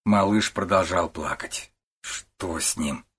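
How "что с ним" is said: low, soft and slow; quiet slow mutter. A narrator's reading. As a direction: mumble it under your breath, worried. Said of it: "пробормотал Пиннеберг".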